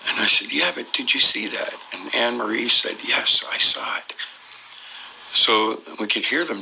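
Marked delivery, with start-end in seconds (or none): 0.5-1.7 higher, contained insistent question; mildly urgent, pitched-up repeat. Retold or imitated. Repeats question after being shushed. 3.0-4.1 whispered reply. Retold or imitated. Whispered answer after everybody shushed.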